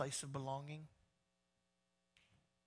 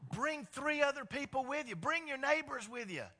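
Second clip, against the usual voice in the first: higher, eager inviting voice; a lightly voiced God urging everyone along; God speaking; 8 semitones higher, 5 dB louder than usual. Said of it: "And then he says".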